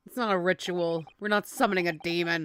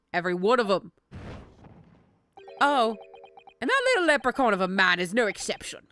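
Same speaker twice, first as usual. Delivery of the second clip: lightly voiced Cockney juror; a hint of grumbling Cockney; attempted Cockney; 4 dB louder, faster than usual. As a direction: have a go at a Cockney accent. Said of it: "My accent game is so goddamn off".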